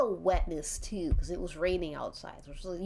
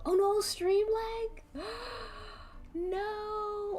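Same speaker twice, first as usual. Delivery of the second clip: high-pitched gasping dismay; gasp, then a high drawn-out no; alarmed; 13 semitones higher, much slower than usual. Real, not acted. Streamer fearing the stream lag, alarmed.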